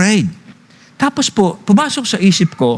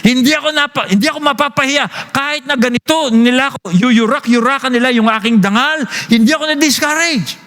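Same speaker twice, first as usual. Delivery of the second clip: higher, resolute quoting; voicing the servant; 6 semitones higher than usual. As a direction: speak as the defiant servant. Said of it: "sabi niya". (matatag na boses ng lingkod)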